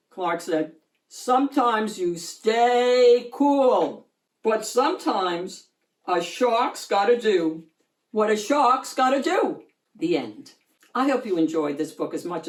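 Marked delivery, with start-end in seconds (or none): 1.1-9.6 proud shark. Acted. Shark's punchline to mother.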